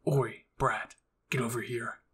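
Levi calls Mikasa over, lightly voiced; calling out. A narrator's reading. Levi calling Mikasa over, rough and curt. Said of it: "he called to Mikasa".

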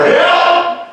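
a high sung yelp of help; mock cry for help. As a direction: squeal help up high like a call. Calling for help in a retold scene.

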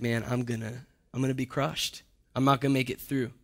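quiet despair. Retold or imitated. Preacher voicing a listener's quiet despair. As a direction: voice a crushed man's quiet fear.

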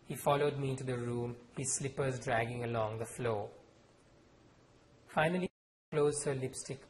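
measured author reading with voiced characters; story reading. A narrator's reading. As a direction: read the scene aloud, letting the characters speak. Author reads novel aloud.

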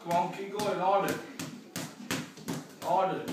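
shouted encouragement, rising force. Real, not acted. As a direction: push them hard, shout it. Coach urging during workout.

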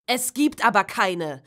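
loud angry outburst; a teenager yelling in frustration; bellowing. Acted. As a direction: snap it out loud at the family. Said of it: "brüllte Tom".

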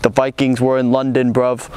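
lightly attempted British accent; a half-hearted go at a London British accent; bad British accent. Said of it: "I can't do accents".

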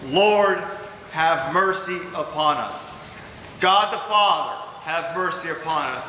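each call to God lifted, each plea for mercy falling away; prayerful litany. Acted. Preacher praying the Kyrie for the congregation, earnest litany. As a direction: pray it line by line, rising on the name and sinking on the plea.

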